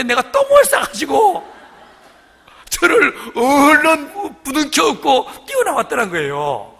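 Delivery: high, slow, loud laughing retelling; laughing shout. Real, not acted. Preacher laughing loudly as he tells the congregation about his accident. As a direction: burst out laughing at the memory. Retelling sister's funny baby story.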